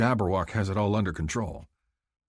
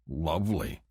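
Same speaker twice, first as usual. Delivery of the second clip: cranky; 3 semitones lower, 4 dB quieter than usual. Acted. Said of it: "I say in my best cranky voice".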